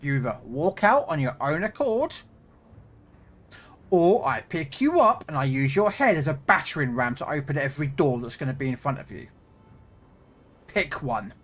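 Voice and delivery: stern bouncer threat. Retold or imitated. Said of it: "the response was normally from me".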